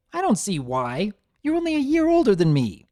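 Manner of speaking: rising to a fast, high shout; shouting back. A narrator's reading. Brother shouting back at his bossy sister, fast and high. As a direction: yell it back at her. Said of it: "Cloud Runner shouted back".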